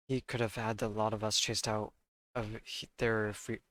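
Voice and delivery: lightly done London Cockney, dropped sounds; Cockney accent. Acted. Player reading Gina's testimony aloud, in a light Cockney accent. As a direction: read the line in a mild Cockney street accent. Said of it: "I need to stop reading in the accent".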